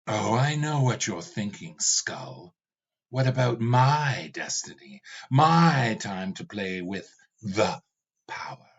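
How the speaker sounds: lightly voiced demon king, bitter; a hint of an angry demon lord; tired tyrant speaking to his servant skull; Ravana, weary and fed up.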